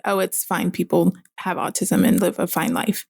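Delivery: mildly matter-of-fact, a little softened. Retold or imitated. Doctor brushing off a mother's worry about autism, matter-of-fact. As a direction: imitate an offhand, unmoved reassurance. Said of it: "she just matter of factly said".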